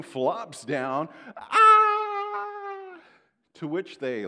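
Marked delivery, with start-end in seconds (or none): 1.4-3.0 put-on high loud wailing "Ah!" of a child; a child's shrieking tantrum cry, much higher and louder; fake tantrum cry. Child on the floor fakes a wail for the parents, shrieking.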